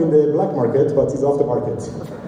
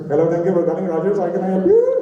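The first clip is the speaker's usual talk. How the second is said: put-on a light South Asian call center accent, higher pitch; 5 semitones higher than usual. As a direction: answer the phone as a polite Pakistani agent. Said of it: "I would be talking like this".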